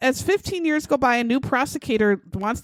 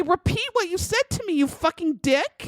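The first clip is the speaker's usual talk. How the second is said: intimidating; 6 semitones higher than usual. Pretend. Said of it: "Intimidate him a little bit and say".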